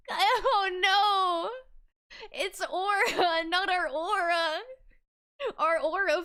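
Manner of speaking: helpless laughing through the words; wheezing with laughter, barely getting words out; cracking up at how bad they smell; laugh-crying. Real, not acted.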